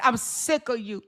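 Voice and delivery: a hint of a whiny rival voice; mild mock of the jealous rival; mocking her rival. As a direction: lightly mimic her bitter complaining. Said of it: "She's so si".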